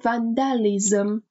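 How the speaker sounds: "وندالیزم" slowly, ending in -lizem; careful pronunciation. Shown as a demonstration. Teacher repeats word after explaining its ending, slow careful "وندالیزم". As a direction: sound out "وندالیزم" as van-da-li-zem.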